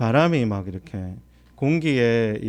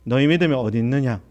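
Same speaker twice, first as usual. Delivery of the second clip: quick recap; faster than usual. Acted. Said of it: "누가복음에는".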